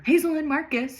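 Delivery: lightly acted call to the children; mild yell. A narrator's reading. Father calling his children before leaving, mock yell. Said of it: "he yells".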